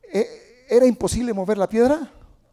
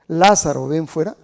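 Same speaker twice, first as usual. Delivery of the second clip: firm raised command; loud call; 3 semitones lower, 7 dB louder than usual. Acted. Preacher repeating Jesus's shout to Lazarus. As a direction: call Lazarus out again, strong. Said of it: "¿Saben por qué le gritó así?".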